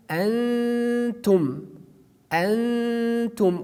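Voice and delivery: antum with the n hidden, nasal hum into the t; hidden nun in antum. Shown as a demonstration. Teacher demonstrating hidden nun in antum. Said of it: "Just we pronounce here nun, but not very frankly".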